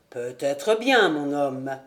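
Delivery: put-on low, steady voice of a mysterious old charcoal burner; charcoal burner Rouan. A narrator's reading. Charcoal burner welcoming Jude into his hut, low and knowing.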